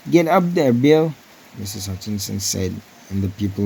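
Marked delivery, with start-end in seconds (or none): 0.1-1.1 high, loud urging call. A narrator's reading. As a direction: shout him up to the box, half joking. Wife calls husband forward.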